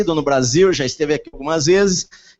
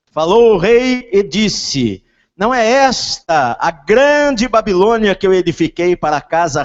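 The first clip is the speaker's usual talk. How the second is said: loud, slow, proclaiming reading; scripture reading; 4 semitones higher, 5 dB louder, slower than usual. Acted. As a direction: read the verses like a herald. Reads scripture aloud.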